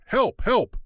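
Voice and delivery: high, loud cry for help; shout for help. Acted. A man in the lobby calls for help, loud cry. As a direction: yell it out, desperate. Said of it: "She heard a man shout".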